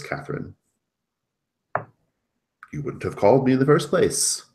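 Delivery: lightly acted emphatic reassurance turning into rebuke; indignant character on a call. Fixer reminding Catherine whose mess this is, mildly indignant.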